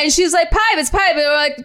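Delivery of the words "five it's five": put-on high, insistent grandma with Filipino accent; higher-pitched mock Filipino accent; grandma's Filipino accent. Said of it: "She plays Scrabble in her accent".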